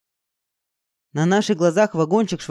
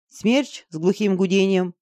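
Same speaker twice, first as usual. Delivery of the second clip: plain reading voice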